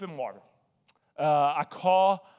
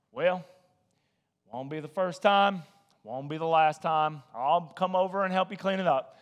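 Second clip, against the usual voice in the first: nonchalant; 2 semitones lower than usual. Retold or imitated. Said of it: "In the most nonchalant way".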